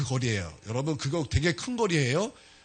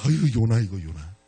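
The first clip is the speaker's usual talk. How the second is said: exasperated sigh at Jonah; 8 semitones lower than usual. Shown as a demonstration. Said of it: "이거 말씀 볼 때마다".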